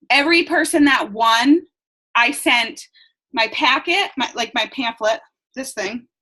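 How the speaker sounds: short of breath, pregnant. Real, not acted. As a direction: talk out of breath between phrases. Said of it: "I'm, like, out of breath".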